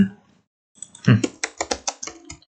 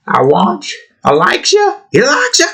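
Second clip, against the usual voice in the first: very high, fast, menacing prison-hype voice; Fleece Johnson. Retold or imitated. Fleece Johnson threatening Tom, very high voice. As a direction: squeal the threats high and quick. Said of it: "Fleece Johnson or something".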